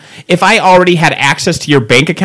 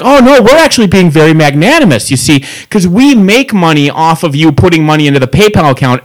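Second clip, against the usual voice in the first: hammed-up smug corporate voice; a mock-benevolent rep talking down to a caller; sarcastic supervisor parody. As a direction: play the smug company rep.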